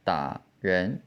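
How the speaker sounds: low falling "da", then "ren" rising; "da" in half third tone, "ren" in second tone. Shown as a demonstration. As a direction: cut the rise off "da" and let "ren" climb. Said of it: "say the first half of the third tone".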